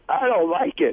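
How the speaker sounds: high, whiny imitation of her crying; mock crying wife. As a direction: imitate her teary whine. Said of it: "And she starts crying".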